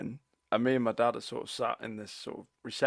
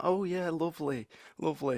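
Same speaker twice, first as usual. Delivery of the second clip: higher, put-on polite approval; imitating blind grandmother; 6 semitones higher than usual. Grandson mimics blind grandmother receiving gifts, higher polite coo. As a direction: play a grandmother politely admiring what she can't see. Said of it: "she's like".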